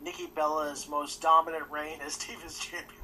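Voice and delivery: sarcastic, breaking into a laugh; deadpan praise cracking up midway; trying not to laugh. Real, not acted. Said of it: "I can't even say that with a straight face".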